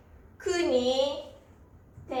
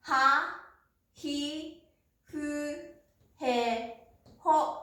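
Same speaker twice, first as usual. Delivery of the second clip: は、ひ、ふ、へ、ほ each said alone with pauses; syllable by syllable; much slower than usual. Shown as a demonstration. Teacher modelling ha-row kana for students, slow and spaced. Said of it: "Hの音は、".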